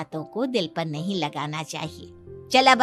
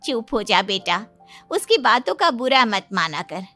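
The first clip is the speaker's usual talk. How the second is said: put-on soothing a child. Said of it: "साक्षी फूट फूट कर रोने लगती है".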